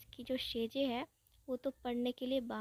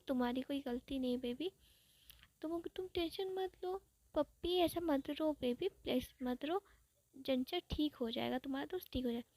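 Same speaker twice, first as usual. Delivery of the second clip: put-on soft, coaxing comfort, rising on baby; softer, tender lover's reassurance; soothing boyfriend; 2 semitones higher, 4 dB quieter than usual. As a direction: hush a crying partner gently. Wing comforts crying boyfriend.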